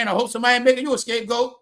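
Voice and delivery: real amusement spilling into the words; laughing. Real, not acted. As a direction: repeat it while cracking up. Repeats his line through laughter.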